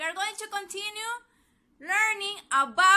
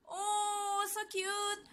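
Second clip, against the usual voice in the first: cooing; 3 semitones higher, 8 dB quieter, slower than usual. Pretend. Cooing over the fish picture.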